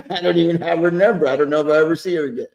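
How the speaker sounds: laughing through the words. Real, not acted. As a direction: chuckle while telling it. Joking about a one-night stand.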